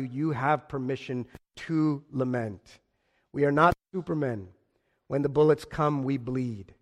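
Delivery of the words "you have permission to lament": gentle reassurance. Shown as a demonstration. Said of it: "Someone just needs to tell you".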